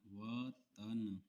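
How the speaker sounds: वतन stretched very slowly syllable by syllable; slow dictation. Shown as a demonstration. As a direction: drag out वतन as if dictating for shorthand. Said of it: "इसकी practice आप देख लीजिए".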